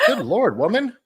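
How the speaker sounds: scandalised cry at a friend; shocked exclamation. Real, not acted. Reacting to the Texas Screw email name, shocked.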